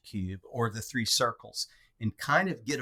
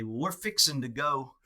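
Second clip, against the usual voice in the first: Texan accent; 3 semitones higher than usual. Shown as a demonstration. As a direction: say it like a relaxed North Texan. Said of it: "Texan accent or my colloquialisms".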